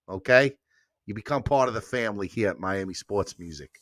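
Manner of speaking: hammed-up New York accent; amateur New York wise-guy accent; New Yorker accent. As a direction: welcome them into the family like a New Yorker. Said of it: "What I was trying to do as a New Yorker".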